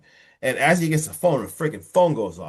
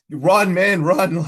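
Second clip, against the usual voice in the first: loud, higher urging cry; urgent yell; 7 semitones higher, 6 dB louder, much slower than usual. Acted. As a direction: yell at him to flee. Urging the film character to flee.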